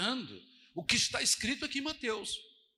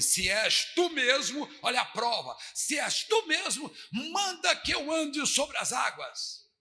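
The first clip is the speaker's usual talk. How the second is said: slow, raised challenging call; 3 semitones higher, slower than usual. Retold or imitated. Peter calling to Jesus over the waves, slow raised call. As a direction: shout across the water.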